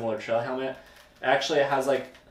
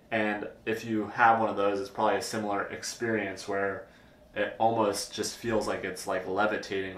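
wearing full-face helmet; through a helmet chin bar. Real, not acted. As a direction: chin bar before mouth. Seen 4: Chin bar helmet worn on head and face throughout the labelled words.

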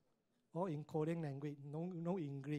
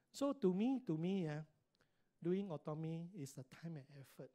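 normal talking voice

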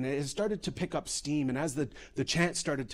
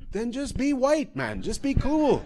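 higher, laughing plea to just be cool; exasperated pleading; 11 semitones higher, 5 dB louder than usual. Real, not acted. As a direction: beg them, half laughing. Pleading with white men.

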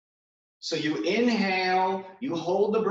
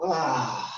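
breath dump sigh; 5 semitones lower than usual. Shown as a demonstration. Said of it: "just go".

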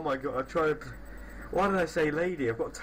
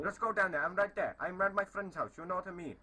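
softer fake Indian accent; put-on Indian accent; 5 dB quieter than usual. Prankster arranging a pretend fight, put-on Indian accent. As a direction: bluff in a faked Indian accent. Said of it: "I am from India".

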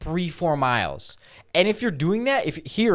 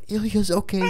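"Ilya's okay" said out at normal level, higher pitched; repeated, clearer; 6 semitones higher than usual. Retold or imitated. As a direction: repeat "Ilya's okay" audibly after being asked what. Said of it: "I go".

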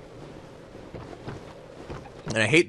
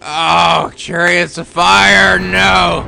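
loud, drawn-out cries; slow wail of alarm; dismayed shout; 6 dB louder, much slower than usual. Real, not acted. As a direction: cry out in dread at the boss. Horrified by boss attack.

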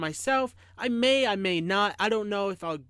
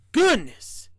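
higher, startled storybook engineer; raised voice of surprise; astonished; 6 semitones higher, 6 dB louder than usual. A narrator's reading. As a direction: exclaim it in amazement. Engineer astonished the train really talks.

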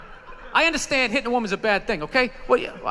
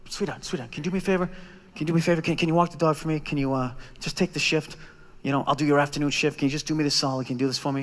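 low, soft coaxing plea; butter her up, softly and lower; sweet-talking plea; 10 semitones lower, 6 dB quieter, faster than usual. Retold or imitated. Sweet-talking girlfriend for a favor.

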